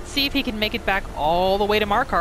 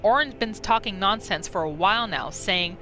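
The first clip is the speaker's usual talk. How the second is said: lightly voiced bandit boss recounting the raid; bandit leader's note. Streamer reads the bandit leader's journal, lightly in character. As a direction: tell it like a scheming bandit chief, a little rough.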